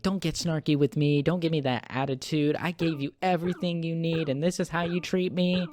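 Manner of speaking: mock a mother telling off her son; drilling him. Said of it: "she's just drilling him".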